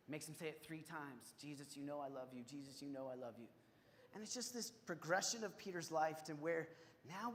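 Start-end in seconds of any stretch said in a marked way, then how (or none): 1.4-2.4 softer, lower earnest answer; humbled reply. Retold or imitated. Peter answering Jesus. 2.4-3.5 softer, lower earnest answer; humbled reply repeated. Retold or imitated. Peter answering again.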